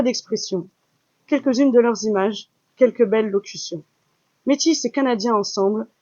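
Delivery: measured, solemn reading of verse; poem recital. Acted. Assistant reciting Riel's poem to the audience, solemn verse reading.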